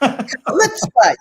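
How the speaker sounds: Chutzpah with a hard throaty ch; Yiddish pronunciation. Shown as a demonstration. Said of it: "You gotta go chutz".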